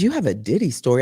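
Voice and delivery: low, fast, deadpan repeat; deadpan incredulous echo; flat disbelief. Retold or imitated. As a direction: throw it back, unimpressed and sceptical. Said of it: "I said".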